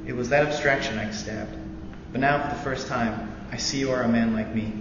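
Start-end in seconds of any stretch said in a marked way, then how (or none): none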